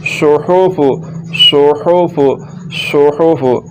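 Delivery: सोहोफु with a constricted ha; correct mid-throat ha. Shown as a demonstration. Teacher giving the corrected reading, mid-throat ha. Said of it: "तो कैसे पढ़ेंगे?".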